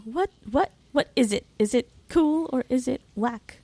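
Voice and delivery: badly faked London slang accent; awful Ali G. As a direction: have a half-hearted go at a London street accent. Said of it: "It's an Awful Ali G, um, reference".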